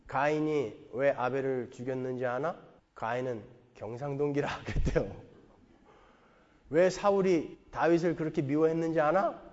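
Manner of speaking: a hint of a teasing Gyeongsang sermon; Gyeongsang dialect. Honam pastor mocking Gyeongsang folk from the pulpit, in light Gyeongsang dialect. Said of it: "이런 식으로 설교를 했다".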